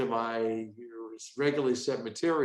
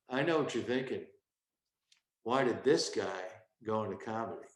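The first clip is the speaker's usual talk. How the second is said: winner act; 4 semitones lower, 3 dB quieter than usual. Shown as a demonstration. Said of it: "See that tweak?".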